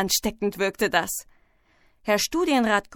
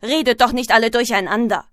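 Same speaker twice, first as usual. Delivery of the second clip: loud, quick scolding; brisk classroom telling-off; scolding teacher; 5 dB louder, faster than usual. Acted. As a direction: rattle off a firm reprimand.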